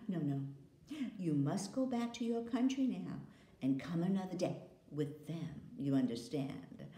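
a sweet but firm witch queen; queen sending the boy home, coaxing. Acted. Queen voiced.

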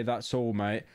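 put-on lightly British-accented sign-off. Streamer trying out a viewer's sign-off, lightly British accent. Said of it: "it sounds more British".

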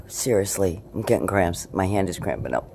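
usual speaking voice

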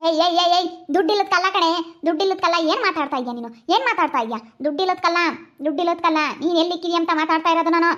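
cross, insistent questioning; irritated scolding. Acted. Mother demanding to know where the ATM card is, irritated scolding. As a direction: repeat the demand with rising impatience. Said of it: "ಯಾಕ್ ಹಂಗ್ ರೇಗಾಡ್ತಾ ಇದ್ಯಾ".

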